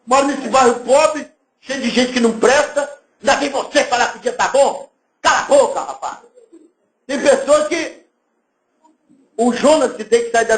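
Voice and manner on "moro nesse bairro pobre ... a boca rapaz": a half-laughing imitation of a rude grump; grumpy mock rant. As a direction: snap back rudely, laughing through it. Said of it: "Pessoas que alguém fala assim". (imitação de uma pessoa grossa reclamando do bom dia)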